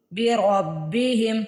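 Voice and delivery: بربہم with a full heavy را; slow بربہم, ra said thick. Shown as a demonstration. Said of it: "را کو موٹا پڑھنا ہے". (بربہم میں را موٹا)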